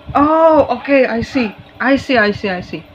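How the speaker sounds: the penny drops, voice jumps up; surprised realization. Real, not acted. Sudden realization reading cards. (terkejut paham, suara lebih tinggi dan keras)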